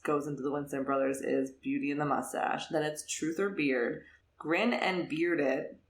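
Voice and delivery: slow, savouring each title; a deliberate, amused title roll call; reading out titles. Real, not acted. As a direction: present each title like a list for listeners. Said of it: "I have to read these titles for our listeners".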